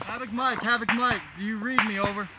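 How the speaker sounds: radio call through static; distant tinny field radio; crackly military radio. Real, not acted. Calling base over the radio.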